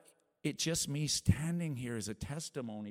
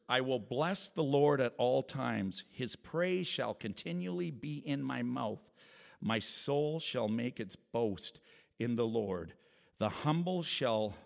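scripture reading; 4 dB louder than usual. Acted.

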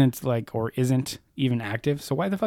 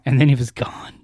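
whispering; 3 dB louder than usual. Pretend. Mock dramatic whisper.

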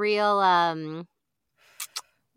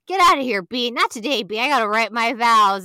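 loud mock yell shooing a bee; 2 semitones higher, 5 dB louder than usual. Groom yelling at a bee in the woods, mock shout. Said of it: "he's, like, talking to this bee".

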